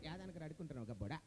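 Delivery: quiet irritated scolding turning to announcement; Jayaprakash Reddy impression. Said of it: "Jayaprakash Reddy గారు".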